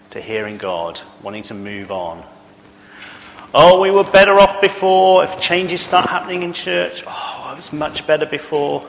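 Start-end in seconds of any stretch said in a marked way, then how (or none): 3.5-8.9 higher, louder moaning about change; whining churchgoer. Acted. Preacher mimicking congregants who resist change, whiny. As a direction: whine that the old days were better.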